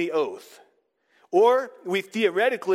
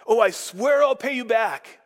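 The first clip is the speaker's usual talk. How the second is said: mock glib promise; 6 semitones higher, 5 dB louder than usual. Mocking an empty promise.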